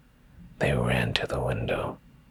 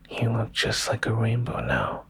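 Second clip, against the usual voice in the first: higher, delighted whisper; gleeful; 10 semitones higher than usual. Acted. Susie delighting at Fluffal's colours, gleeful whisper. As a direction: whisper it with a child's joy. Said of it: "Susie said with glee".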